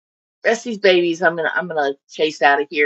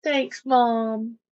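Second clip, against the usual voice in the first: higher and fast, mock-hurt kids fading to sulky; whiny baby fish; 8 semitones higher than usual. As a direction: play the betrayed little fry complaining to mom. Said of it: "It's like".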